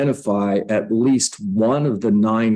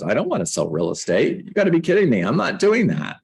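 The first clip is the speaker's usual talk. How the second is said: you can't be serious; incredulous refusal; 4 semitones higher, faster than usual. Retold or imitated. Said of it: "my first spot response to her was".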